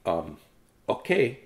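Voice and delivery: low, soft meek reply; scolded boy answering the teacher, soft and low. Acted. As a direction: answer sheepishly like a scolded kid. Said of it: "said Leonardo".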